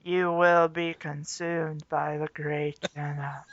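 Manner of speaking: low, slow ominous; ominous cult voice. Acted. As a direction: intone it like a cult. Mock cult chant.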